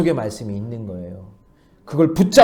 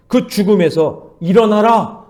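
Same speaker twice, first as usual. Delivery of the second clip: louder, higher, slow command; Jesus commanding; 7 semitones higher, 9 dB louder, slower than usual. Retold or imitated. Jesus commanding the dead son to rise, loud and slow. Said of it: "이렇게 말씀하고 있어요".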